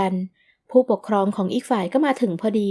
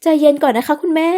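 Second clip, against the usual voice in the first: soothing plea; 6 semitones higher, 5 dB louder than usual. Acted. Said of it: "อาจารย์พยายามไกล่เกลี่ย".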